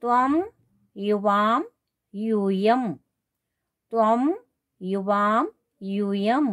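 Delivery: drawn-out words with pauses between; word-by-word teacherly recital; slow recitation drill. Shown as a demonstration. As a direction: model each form slowly for the class. Models pronoun forms for students.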